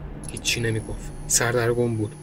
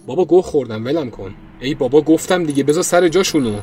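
panicked begging; 4 semitones higher, 5 dB louder than usual. Acted. Panicked pleading.

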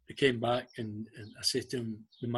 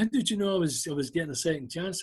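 retold amazement; 4 semitones higher than usual. Retold amazed return after reprieve.

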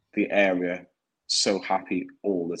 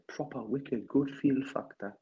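slow, higher-pitched put-on voice; Lee Lawler; 5 semitones higher, 4 dB quieter than usual. Teasing the absent pal about feel factor, impression. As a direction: draw it out in a raised mock voice. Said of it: "if that was my impression of Lee Lawler".

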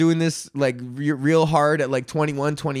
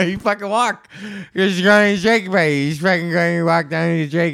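hyped up; 3 semitones higher than usual. Acted. Hyping up the Drake.

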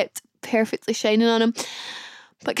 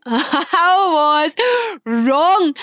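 "I was wrong" drawn out very slowly through a laugh, higher; 5 semitones higher, much slower than usual. Real, not acted. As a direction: stretch "was" out while laughing.

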